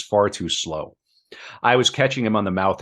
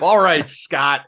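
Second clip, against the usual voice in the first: slow, high, louder savage reading; 8 semitones higher, 4 dB louder, slower than usual. A narrator's reading. Ernest to Scott after being knocked down, savagely. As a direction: bite out each word like a wounded fighter. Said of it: "Ernest said savagely".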